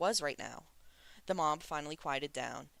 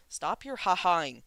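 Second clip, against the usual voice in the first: demanding; 4 semitones higher, 8 dB louder than usual. A narrator's reading. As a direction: bark it at him, fed up. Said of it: "Ming Yi demanded".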